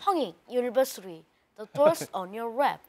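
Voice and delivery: very slow, deliberate English PA voice; subway announcer impression. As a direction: draw out the door announcement. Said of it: "지하철 그 안내방송 성대모사를". (느린 영어 안내방송)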